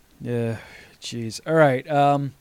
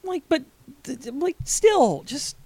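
exasperated; 10 semitones higher than usual. Real, not acted. Exasperated rant.

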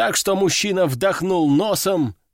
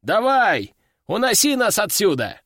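urgent command; 5 semitones higher than usual. Acted. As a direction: push the pilot to fly now. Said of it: "приказал он".

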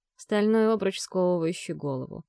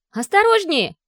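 a sharp, much higher and louder warning cry; sudden cry of alarm; 12 semitones higher, 10 dB louder than usual. A narrator's reading. Vi warning the driver of a swerving car, alarmed cry. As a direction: yelp it as a car swerves at you. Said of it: "Внезапно вскрикнула Ви".

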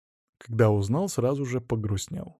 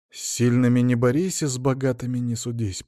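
ordinary delivery, nothing marked

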